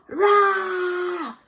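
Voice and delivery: high loud playful roar; hammed-up monster shout. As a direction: roar to give a child a fright. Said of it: "said the monster".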